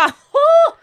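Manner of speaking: high, loud theatrical gasp; mock gasp. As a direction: gasp in exaggerated shock. Overdrevet reaksjon i lekekrangel. (overdrevent, høyt gisp)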